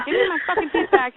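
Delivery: fast, high-pitched angry demand; mock yelling. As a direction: rattle it off as a half-hearted yell. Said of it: "I'm yelling at him".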